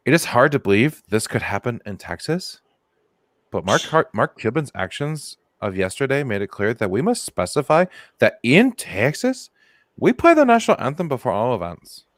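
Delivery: put-on reading a statement in a Texan accent. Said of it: "this is an authentic Texan accent".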